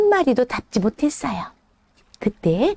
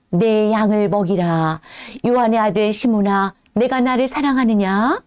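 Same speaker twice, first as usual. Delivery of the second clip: lower, calm tender question; gentle Jesus; 3 semitones lower than usual. Acted. Jesus asking Peter if he loves him, low and tender.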